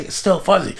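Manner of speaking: high-pitched reply called back; mock calling out. Child in family room answers mother, mild mock call. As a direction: imitate a kid calling from indoors.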